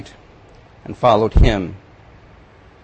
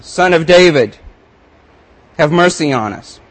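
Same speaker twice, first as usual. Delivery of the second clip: louder, higher begging call; shouted plea; 4 semitones higher, 3 dB louder than usual. Acted. Blind men begging Jesus for mercy, loud call. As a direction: cry out for mercy. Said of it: "they shouted".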